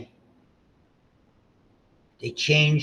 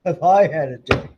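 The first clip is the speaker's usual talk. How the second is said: put-on baby voice; 2 semitones higher, 8 dB louder than usual. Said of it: "She's like".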